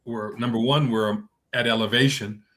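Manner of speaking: ordinary talk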